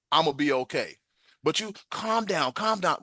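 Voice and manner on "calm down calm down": high, patronizing mimicry; mocking calm down. Mimicking someone saying calm down.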